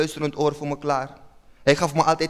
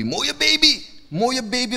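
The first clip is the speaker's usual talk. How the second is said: delighted cooing; 7 semitones higher, slower than usual. Retold or imitated. Admiring newborn.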